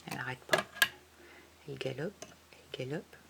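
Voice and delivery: soft storytelling. Acted. Recalling the galloping rider.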